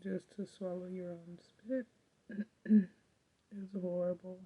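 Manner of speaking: talking through throat pain; sore throat voice. Real, not acted. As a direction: speak carefully around a painful throat. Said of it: "Talking after a while starts to hurt".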